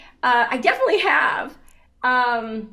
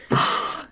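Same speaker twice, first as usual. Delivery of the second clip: gasp. Retold or imitated. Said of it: "And I was like".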